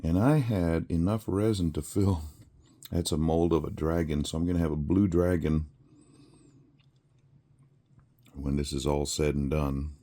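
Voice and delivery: talking while crunching candy; crunching candy cane. Real, not acted. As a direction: mouth full of candy cane. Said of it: "if you hear me crunching, I'm eating".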